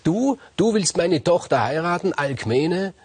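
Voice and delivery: a narrator's mild take on the raging king; angry king. A narrator's reading. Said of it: "seine Wut ausgelassen".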